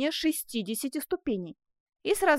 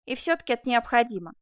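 firm, mildly raised insistence; insistent exclamation; 4 dB louder than usual. Acted. Man overrules sweetheart's warning about prison, insistent. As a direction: declare it with conviction. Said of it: "воскликнул Жак".

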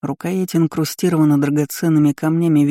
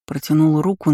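ordinary delivery

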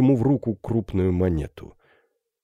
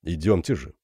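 глухой голос призрака; 4 semitones lower than usual. Acted. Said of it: "проговорил призрак".

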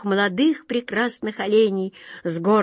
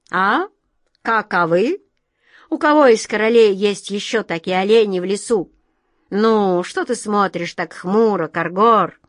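pleased; 4 dB louder than usual. Acted. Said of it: "с довольным видом".

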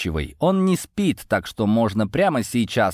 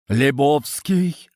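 mild shouted exclamation; 5 semitones higher, much slower than usual. A narrator's reading. Several classmates spotting the hidden eavesdropper, shouting. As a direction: stretch the name out in startled outcry. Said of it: "хором заорали сразу человека четыре".

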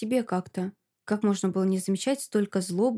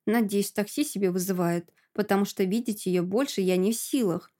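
ordinary delivery

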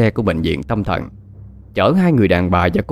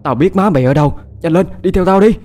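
urgent command; 6 semitones higher than usual. Acted. Urging them to follow.

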